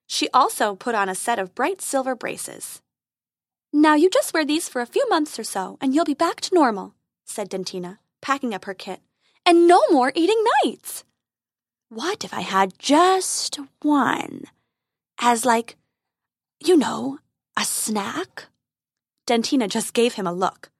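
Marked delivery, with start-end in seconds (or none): 3.7-11.0 fairy voice. A narrator's reading. Fairy gives instructions. 11.9-18.5 wheedling dragon. A narrator's reading.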